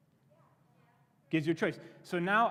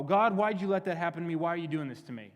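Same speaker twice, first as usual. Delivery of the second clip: mock indignant complaint, louder at the start; mad at God; 4 dB louder than usual. People blaming God after getting burned, acted indignation. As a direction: protest as if wronged. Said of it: "we get mad at God and go".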